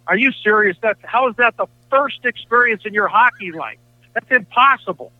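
can't believe what he's hearing; mild amazed disbelief. Retold or imitated. Curator hearing the story, stunned and incredulous.

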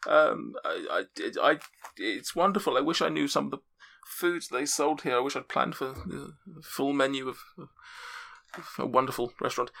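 a refined lady, pleased and chatty; high NPC voice. Acted. NPC voice after scene cut.

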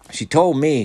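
high, loud little interjection; piping up. A narrator's reading. Clarence telling on Sherry to the group, piping up. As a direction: pipe up brightly over the others. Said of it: "Clarence piped".

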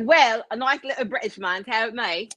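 lightly put-on British accent; a hint of mock British man. Telling friends who asked about Sizzle, mock British accent. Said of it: "finished his fucking accent".

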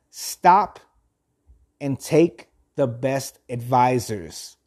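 measured, deliberate reading with firm pauses; reading aloud. Acted. Host reads philosophy to listeners, measured reading aloud. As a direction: read it out phrase by phrase.

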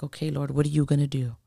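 soft, quick private aside to God; inner thought. Retold or imitated. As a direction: say it quickly under your breath, as if thinking. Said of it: "You know, in my mind".

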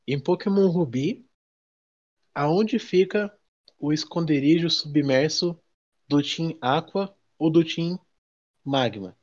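slow, deliberate question read; quiz host read. Acted. Reads quiz question aloud.

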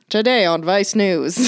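slow, measured documentary announcer voice; Vice News presenter. Acted. Podcaster spoofing a Vice documentary for her co-host, mock presenter voice. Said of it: "That sounds like a Vice documentary".

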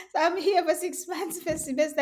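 giggling as she tells it; laughing while talking. Real, not acted. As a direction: laugh through the line. Laughing while recounting her failure.

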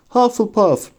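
high-pitched calling out; the hat's high verdict cry; shouted announcement. A narrator's reading. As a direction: proclaim the house name to the hall. Hat calls out the house name.

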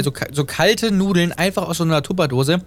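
talking with a mouthful of pasta; chewing while talking. Real, not acted. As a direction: chew between the words. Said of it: "Ich esse gerade so Nudeln nebenbei".

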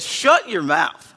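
Jesus rebuking the demon, slow and forceful; aggressive rebuke. Retold or imitated. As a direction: lean into "Shut your mouth" with deliberate aggression. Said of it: "Jesus had some aggression towards the demon".

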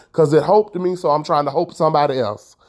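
"hoped" for helped, "hope" for help; auntie's dialect "hope". Retold or imitated. Explaining her aim in auntie's words, "hope" for help. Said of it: "My auntie say hope".

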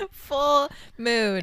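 "Full mood" laughed out, falling; laughing. Real, not acted. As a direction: giggle through "Full mood". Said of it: "Instead of full moon, full mood".

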